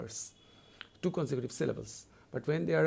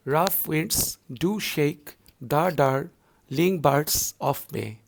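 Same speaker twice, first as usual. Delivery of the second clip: slow, measured reading of the line; poem recitation; 8 dB louder, much slower than usual. Shown as a demonstration. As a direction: give each word its own weight. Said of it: "Third line".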